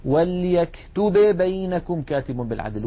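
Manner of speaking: وليكتب بينكم said with both ب sounded apart; a deliberately wrong unmerged reading. Shown as a demonstration. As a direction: split the two ب sounds on purpose. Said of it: "ليس أحد من العرب يقول".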